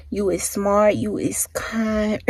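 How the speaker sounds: soft tender whisper. Real, not acted. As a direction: breathe the words tenderly. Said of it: "quoting The Help line".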